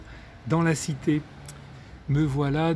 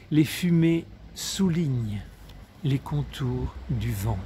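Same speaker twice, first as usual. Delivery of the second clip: poetic closing line. A narrator's reading. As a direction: recite "Les fumées soulignent" raised, settling on "du vent". First reading of closing verse.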